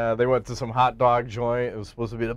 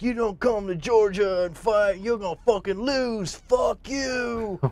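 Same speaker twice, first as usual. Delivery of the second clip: acted drunken ringside jeering, very high-pitched; 10 semitones higher than usual. Retelling a ring announcer heckling a fighter at an event, imitating a drunk announcer. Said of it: "he's drinking and getting wasted".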